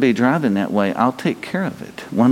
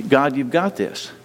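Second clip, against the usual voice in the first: spoken prayer. Acted. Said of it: "just name it to the Lord".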